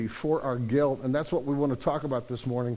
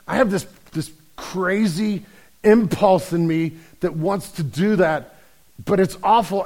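higher, louder, mock-distraught apology; gushing apology; 5 semitones higher, 6 dB louder than usual. Guy apologizing to the shocked bartender, gushing and overwrought. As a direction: plead with hammed-up remorse, stretching key words. Joke character gushes an apology.

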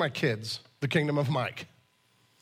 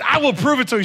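louder, higher insistent promise; teen son determined to prove his dad wrong; defiant son; 6 semitones higher, 6 dB louder, faster than usual. Retold or imitated. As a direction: challenge dad head-on. Son defiant, retold argument.

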